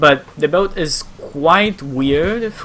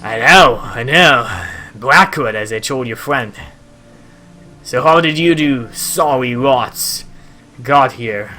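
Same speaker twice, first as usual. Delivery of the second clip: lightly voiced boat owner, louder openings; gruff sailor character; 5 dB louder, slower than usual. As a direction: play the sailor talking up his boat.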